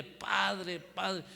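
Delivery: imitando un grito agudo a media voz; grito imitado. Retold or imitated. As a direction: clama en tono alto, sin fuerza plena. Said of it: "gritándole". (grito recreado y moderado)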